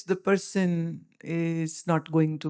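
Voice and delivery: whispered, no voice at all; hushed whisper. Real, not acted. Guru telling followers of a dying man, in a whisper. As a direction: drop to a grave whisper.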